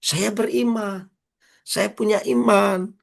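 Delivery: high, slow proud claim of faith; mock boast. Preacher mimicking people who boast of their faith, high and slow. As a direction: put on a smug believer's boast. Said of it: "banyak orang ngomongnya gini".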